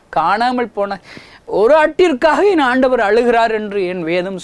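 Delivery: high, loud impassioned sermon; fiery pulpit lament; preaching at full force. Real, not acted.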